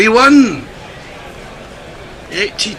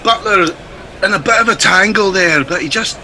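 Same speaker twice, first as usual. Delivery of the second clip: put-on Scottish accent. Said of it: "Billy Connolly become a gorilla".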